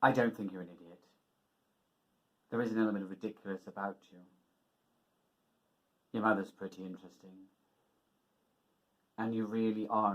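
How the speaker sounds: measured, slightly stiff film-speech recital; lightly acted earnest suitor. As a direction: recite a halting, frank declaration.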